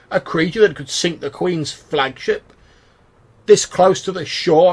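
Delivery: high, loud, slow disbelief; mock the idea as absurd; scoffing captain. Captain scoffs at the sea monster.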